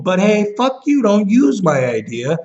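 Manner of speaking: high-pitched furious outburst. Real, not acted. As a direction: spit it out at the thief, pitch shooting up. Furious rant at thieves.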